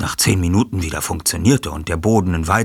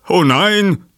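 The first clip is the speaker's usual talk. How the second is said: entsetzt; 14 semitones higher, 8 dB louder than usual. Acted. Sanchez entsetzt über den Diebstahl.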